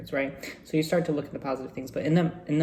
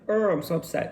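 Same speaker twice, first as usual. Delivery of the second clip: mock yell, only a little raised; retold frustrated shout; 3 semitones higher, 4 dB louder than usual. Speaker retelling the bathtub upset to viewers, mock frustrated shout. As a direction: act out a mild outburst of annoyance. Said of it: "shouted. I was like".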